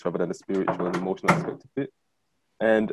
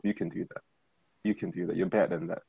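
quiet self-talk; 2 semitones lower, 5 dB quieter than usual. Retold or imitated. Self pep talk inner voice.

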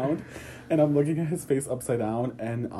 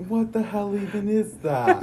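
imitated yelling; 7 semitones higher than usual. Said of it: "that old guy is yelling".

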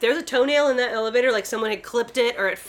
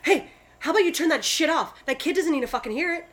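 raised-pitch mock telling-off; 5 semitones higher than usual. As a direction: act out scolding a stranger. Acting out telling strangers off.

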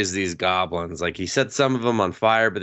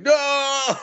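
high, whiny no; mock refusal. Boy refusing Magic Academy, high whiny no. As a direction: refuse like a sulking kid. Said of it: "he's just like".

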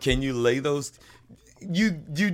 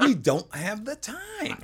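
higher and slower, laughing through it; laughing repeat; 9 semitones higher, slower than usual. Real, not acted. Joking with co-host that they lack time, laughing. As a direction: chuckle the excuse out again.

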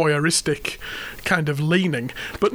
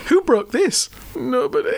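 imitating son; 7 semitones higher than usual. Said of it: "His voice goes up at the end of the sentence".

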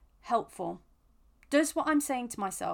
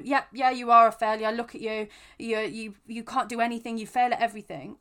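mock harsh jeering at a friend, loud start; harsh inner critic; 5 dB louder than usual. Mocking a friend who feels like a failure, harsh loud jeer. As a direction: play the cruel inner critic, half-serious. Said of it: "Would I be harsh and aggressive towards them?".

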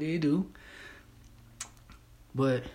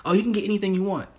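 mock hype voice; 8 semitones higher, 4 dB louder, much faster than usual. Quoting what others promise.

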